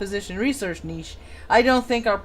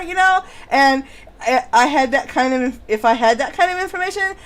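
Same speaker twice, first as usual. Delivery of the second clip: put-on Valley Girl voice. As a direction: read the testimony as a Valley Girl. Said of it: "do it in my Valley Girl voice".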